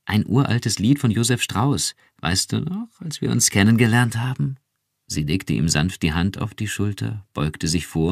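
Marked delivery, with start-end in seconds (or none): 0.0-4.6 etwas höhere Frauenstimme, erinnernd; leicht angedeutete Ehefrau, gerührt; Iran, gerührt. Acted. Iran erinnert sich zärtlich. (Ehefrau erinnert ihren Mann, sanft gerührt)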